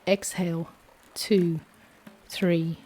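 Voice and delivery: steady, calm counting of breaths; guided breathing count. Acted. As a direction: lead the breath count evenly.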